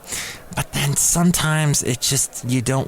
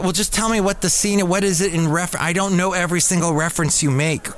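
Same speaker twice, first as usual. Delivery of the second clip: exasperated; 4 semitones higher, faster than usual. Retold or imitated. Acts his exasperated reply to them.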